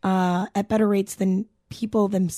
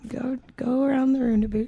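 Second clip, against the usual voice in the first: Canadian accent; 3 semitones higher than usual. Shown as a demonstration. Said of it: "that's a Canadian thing".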